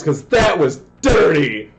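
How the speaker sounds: loud, high call of disbelief; excited yell. Real, not acted. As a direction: shout it out, thrilled. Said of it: "I am yelling super loud".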